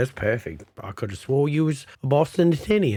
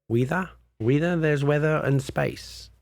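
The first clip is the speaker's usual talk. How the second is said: tentative, questioning Boston imitation; unsure stab at a Boston accent; attempted Boston accent; 4 semitones higher than usual. Shown as a demonstration. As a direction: try copying the Bostonian's "weather". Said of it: "The way that guy said weather?".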